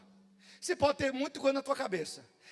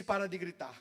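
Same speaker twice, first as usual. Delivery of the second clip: hushing; 6 semitones lower, 8 dB quieter than usual. Retold or imitated. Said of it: "com quem disse".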